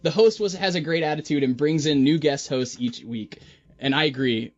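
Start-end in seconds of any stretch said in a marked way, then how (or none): 0.0-3.4 put-on a faint, barely-there Australian accent on a read-out review; reading a listener review in a weak Australian accent. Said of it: "In an Australian accent".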